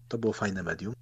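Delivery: ordinary talk, nothing marked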